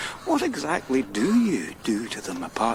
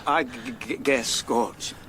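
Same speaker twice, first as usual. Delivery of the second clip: stammer. Acted. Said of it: "I know that stammer".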